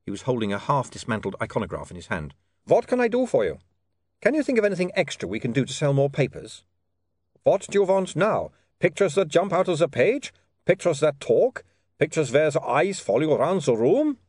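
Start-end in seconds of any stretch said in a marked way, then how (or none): 2.7-14.2 lightly voiced vampire, testy; a hint of a put-upon Uberwald vampire; vampire accent. A narrator's reading. Vampire Otto snapping at William's request, mild vampire accent.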